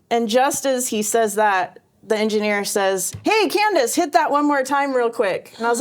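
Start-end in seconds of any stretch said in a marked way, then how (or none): 3.2-5.5 higher call to Candace, pitched up then settling; retold call. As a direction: lightly imitate the engineer calling her over. Engineer calling her back.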